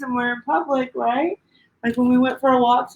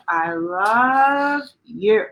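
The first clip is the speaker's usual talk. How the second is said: tender slow I love you; much slower than usual. Acted. Book's key line repeated tenderly.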